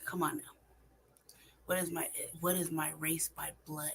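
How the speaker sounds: ordinary talk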